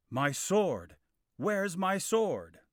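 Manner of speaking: high, loud panic over a lost sword; panicked. Acted. Kay panicking to Arthur over his missing sword, high and loud. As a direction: cry out in alarm, dragging the second line slowly.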